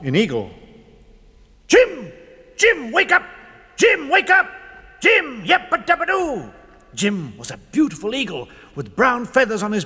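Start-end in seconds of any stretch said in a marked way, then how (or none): 1.7-6.5 higher squeaky mouse calling; urgent wake-up call. A narrator's reading. Mouse calling the sleeping eagle awake, urgent.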